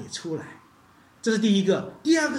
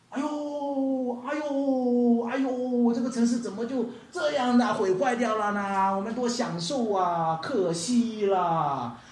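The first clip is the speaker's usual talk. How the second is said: higher hammed-up wail, slowing at the end; wailing wife; 4 semitones higher, slower than usual. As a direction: play the wife looking back with regret. Lot's wife mourning burning city. (罗德的妻子回头，夸张地哀叹)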